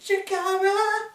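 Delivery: high, slow drawn-out shout; excited shout. Acted. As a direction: belt out the name like a hype man. Shouted promo callout.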